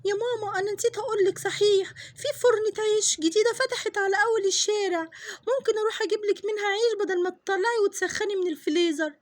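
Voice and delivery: keen daughter pitching an idea; little girl. Acted. Daughter offers to buy bread. (صوت طفلة متحمسة)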